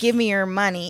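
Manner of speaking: usual speaking voice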